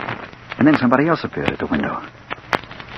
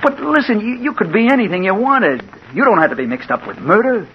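urgent pleading; 11 semitones higher than usual. Acted. Pleading with girl.

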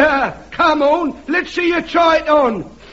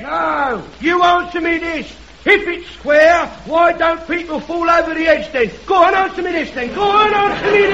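heckling shout. Acted. Heckler shouting back at speaker.

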